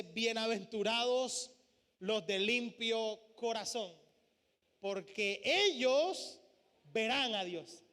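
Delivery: slow, solemn words with long pauses; lingering on each phrase like holy text; slow scripture reading. Shown as a demonstration. Preacher to congregation reading the beatitude, slow and solemn. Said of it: "Una de las bienaventuranzas dice".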